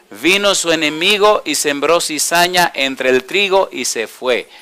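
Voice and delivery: slow, measured verse reading; scripture reading. Acted. Preacher reads of the enemy sowing tares, slow scripture reading.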